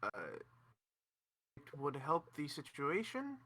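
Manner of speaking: put-on subtle French accent. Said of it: "You went very French very quickly".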